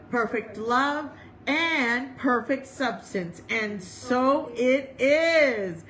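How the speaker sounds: slow, measured affirmation of faith; deliberate congregational creed reading; solemn recitation. Real, not acted. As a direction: recite it slowly, drawing out each phrase. Recites statement of being.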